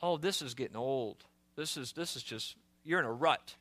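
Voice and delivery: soft, low tempting voice; tempting whisper. Retold or imitated. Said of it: "could have heard the whispers".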